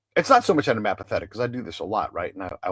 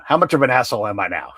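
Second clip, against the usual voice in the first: laughing; 3 semitones higher, 7 dB louder, faster than usual. Real, not acted. Jokes at himself, laughs.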